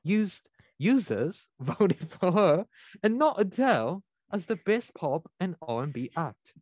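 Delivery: attempted British accent slipping toward Australian. Shown as a demonstration. Host reads the awards story to the crew, British accent. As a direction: read the news in a wobbly British accent. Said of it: "towards the end of that accent".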